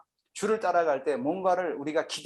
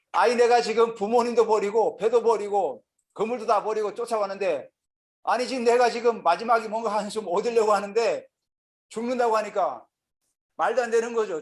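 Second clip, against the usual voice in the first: higher-pitched protest, pleading his case; Peter, worked up; 5 semitones higher than usual. Acted. Preacher as Peter who left everything behind, worked up. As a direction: play an aggrieved disciple, pitch held up. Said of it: "열받은 거죠".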